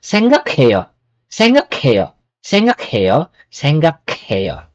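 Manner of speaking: 생각해요 run together quickly; 생각해요 said saenggakhaeyo at speed; fast pronunciation. Shown as a demonstration. Teacher showing the quick spoken form. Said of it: "Pag i-pronounce natin na mabilis".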